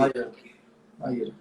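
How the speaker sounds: "Maíra" said again with the stress on the í, ma-Í-ra; repeating the name. Shown as a demonstration. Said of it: "o acento é no I". (repetindo "Maíra" com a tônica no í)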